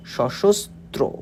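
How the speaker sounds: সশস্ত্র said slowly as শশোস্ত্রো; slow pronunciation demo. Shown as a demonstration. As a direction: stretch সশস্ত্র out, clearly. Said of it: "এই যে উচ্চারণটা এরকম হবে". (সশস্ত্র ধীরে স্পষ্ট উচ্চারণ)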